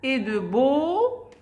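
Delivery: slowly, each sound drawn out; slow syllable demo. Shown as a demonstration. Teacher sounding out French for Arabic pupils, slowly. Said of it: "E A U تقرأ O".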